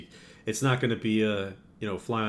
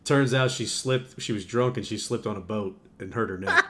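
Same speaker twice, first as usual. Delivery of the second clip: laughing. Real, not acted. Tells funny story, laughing.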